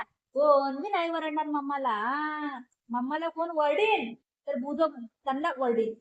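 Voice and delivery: loud, sing-out praise to a little one; delighted praise. Real, not acted. Praising child for finishing food.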